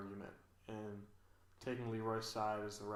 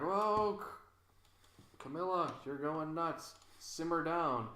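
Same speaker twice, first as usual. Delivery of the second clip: higher-pitched imitation of startled onlookers; mock alarm; 5 semitones higher, slower than usual. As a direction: act out a mildly taken-aback reaction. Voicing producers reacting to Camilla.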